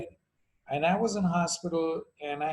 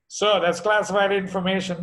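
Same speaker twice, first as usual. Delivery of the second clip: stiff official on the phone, raised; a curt, official brush-off, a touch louder; embassy official; 3 semitones higher, 6 dB louder than usual. Retold or imitated. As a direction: clerk refusing over the line. Acted call with the embassy.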